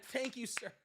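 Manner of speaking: high, gushing adoring voice; fawning sycophant. Retold or imitated. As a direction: gush like a starstruck lackey. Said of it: "And they're just like".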